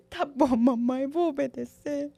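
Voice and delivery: put-on high, tearful little girl giving in; imitating a crying child. Mother voicing her crying daughter as she gives in, high and tearful. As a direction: whimper it like a sobbing toddler. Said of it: "começou a chorar".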